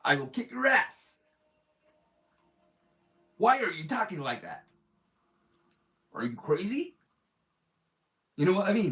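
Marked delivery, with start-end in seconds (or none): 0.0-6.9 hammed-up American accent of an old kung fu dub. Mocking an old martial arts film's American dub, hammed-up American accent. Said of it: "an American accent going".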